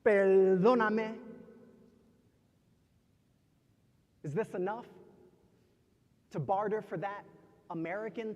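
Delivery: measured poetry delivery with long pauses; spoken-word poem. Acted. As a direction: recite it in short, weighted phrases.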